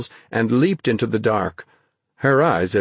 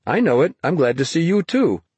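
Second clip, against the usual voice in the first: higher, friendly dog's greeting; companionable; 7 semitones higher than usual. A narrator's reading. The dog greeting Dennis, companionable. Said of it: "companionable woof, as if to say".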